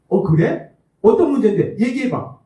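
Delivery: 살짝 들뜬 남편 흉내, 조금 크게; 아내 말에 바로 끼어드는 가벼운 흉내. Retold or imitated. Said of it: "이런 반응을 보입니다". (아내 하소연에 신나서 묻는 남편, 살짝 들뜬 말투)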